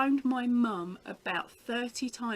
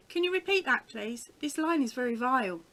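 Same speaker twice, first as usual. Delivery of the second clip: higher-pitched mock telephone manner; put-on phone voice; 3 semitones higher, 4 dB louder than usual. Winding up a cold caller on the phone, put-on higher voice. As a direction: lift the voice, playing innocent with a caller.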